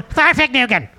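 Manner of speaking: says Farfignugan through a laugh, mocking it; laughing mock pronunciation. Pastor to congregation mocking the name, laughing.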